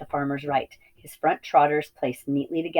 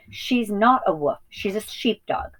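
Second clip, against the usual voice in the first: rather hurt; 6 semitones higher than usual. A narrator's reading. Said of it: "in a rather hurt voice".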